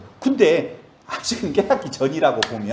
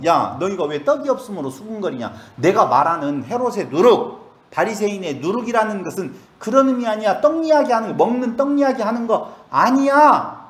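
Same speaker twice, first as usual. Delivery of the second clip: voicing Jesus; 6 semitones higher, 3 dB louder than usual. Voices Jesus rebuking disciples.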